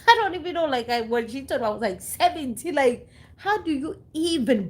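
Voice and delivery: high-pitched, half-laughing disbelief; incredulous. Real, not acted. Woman recalling news of seventeen miscarriages, incredulous. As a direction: pitch jumps up, lost for an answer.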